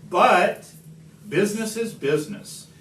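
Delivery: defiant justification. A narrator's reading. Onceler justifying himself.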